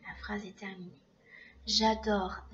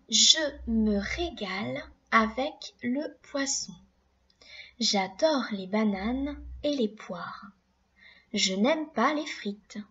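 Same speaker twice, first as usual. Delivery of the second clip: slow, careful dictation voice; slow dictation read. Shown as a demonstration. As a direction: read each sentence out slowly for the class. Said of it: "Voilà ce que nous allons écrire".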